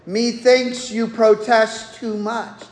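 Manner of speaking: lightly put-on King James English; mock-archaic King James delivery; King James accent. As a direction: quote it in a half-hearted King James accent. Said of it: "a King James accent".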